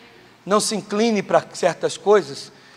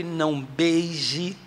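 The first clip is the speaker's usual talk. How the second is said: drawn-out; 2 semitones lower, 4 dB quieter, much slower than usual. Real, not acted. Slow stressed command.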